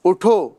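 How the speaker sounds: اٹھو alone, then halt; اٹھو cut off by a pause; stop after اٹھو. Shown as a demonstration. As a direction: say اٹھو as a separate command. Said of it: "یہاں رک گئے".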